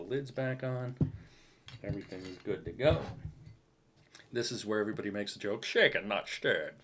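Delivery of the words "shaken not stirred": Sean Connery. Retold or imitated. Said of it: "if that's your Sean Connery impression".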